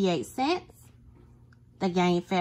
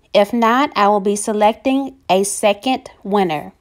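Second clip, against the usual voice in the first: hyped giveaway announcement; 9 dB louder than usual. Acted. Announcing the giveaway winner, loud.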